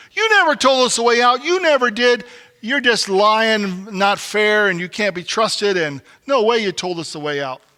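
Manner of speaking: angry campers blaming the leader; accusing protest. Retold or imitated. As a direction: hurl accusations of lying.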